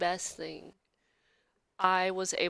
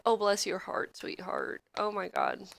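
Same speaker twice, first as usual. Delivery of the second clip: mock Southern sympathy; 6 dB quieter than usual. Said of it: "I'll be someone that's like".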